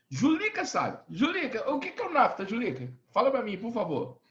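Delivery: high-pitched call to a student. Real, not acted. Teacher asks Julica to explain NAFTA, calling out.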